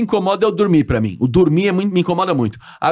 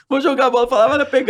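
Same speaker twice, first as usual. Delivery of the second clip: like talking to a dog; 6 semitones higher than usual. Retold or imitated. Plays fetch with son like dog.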